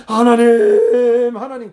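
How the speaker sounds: long, loud cry out to God, dropping off on the repeat; acted imploring shout that falls away; pleading call. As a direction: call to God with a drawn-out first word. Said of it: "하소연해봐요".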